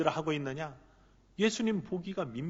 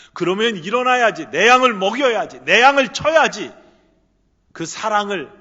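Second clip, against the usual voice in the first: much louder and higher, ringing out; impassioned call; 4 semitones higher, 13 dB louder than usual. Acted. Jesus summoning Peter to rise and tend sheep, impassioned loud call. Preacher voicing Jesus, climax.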